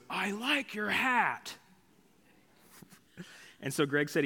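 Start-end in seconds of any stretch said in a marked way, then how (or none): 0.1-1.5 high, drawn-out drunken bellow, imitated; very loud voice. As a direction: mimic a loud man booming each word slowly. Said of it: "in a very loud voice".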